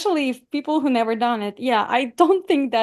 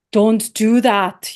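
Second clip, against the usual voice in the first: slow, louder warning; stern priest; 2 semitones lower, 5 dB louder, much slower than usual. Retold or imitated. Priest scolding a parishioner about breaking up, slow and stern. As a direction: lay down the law like a priest.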